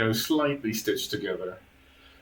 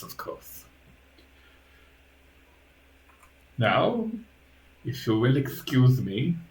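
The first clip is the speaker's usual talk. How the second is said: lightly voiced formal creature butler; a hint of a deferential creepy servant; Igor, obedient servant; 3 semitones higher than usual. Igor takes his master's order and leaves, deferential.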